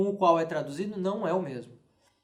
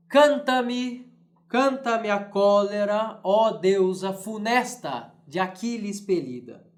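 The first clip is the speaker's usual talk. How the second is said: poetry reading; slower than usual. Shown as a demonstration. Teacher reading Nunes's Iliad aloud to class, declaimed. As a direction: declaim the verse with a galloping beat. Reads Portuguese verse translation.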